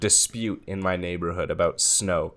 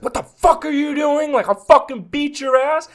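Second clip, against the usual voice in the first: much higher, squeaky mock rage; angry neighbor; 5 dB louder than usual. Snow-clearing neighbor yelling at the snowblower guy, mock rage. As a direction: play the furious neighbor as a shrill parody. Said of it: "And he's like".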